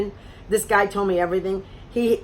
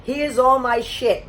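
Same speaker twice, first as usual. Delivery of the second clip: slow, half-crying mock shout; hammed-up overshare, a bit slower; mock dumping it all; 4 semitones higher, slower than usual. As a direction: spew it out like you can't hold it in. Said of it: "vomited all over me".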